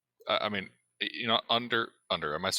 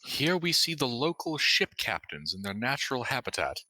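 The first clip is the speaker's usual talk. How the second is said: nature documentary. Pretend. Mock wildlife narration aside.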